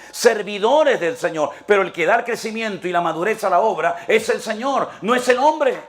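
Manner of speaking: acted exasperation, pitched high; high, emphatic mock annoyance; irritated Paul. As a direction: play an indignant apostle scolding the congregation. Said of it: "Pablo se enoja y dice".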